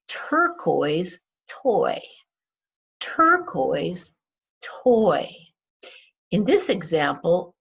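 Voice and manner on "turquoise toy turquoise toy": turquoise toy said slowly, oi drawn out; teacher modelling turquoise toy; slow phonics demo. Shown as a demonstration. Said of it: "make the oi sound".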